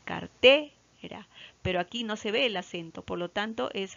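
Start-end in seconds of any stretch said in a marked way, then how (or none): 0.0-1.3 "cartera" split, TE held long and loud; slow teacher's "car-TEE... ra"; stress on TE. Shown as a demonstration. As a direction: break "cartera" after a strong, stretched "te". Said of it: "en T".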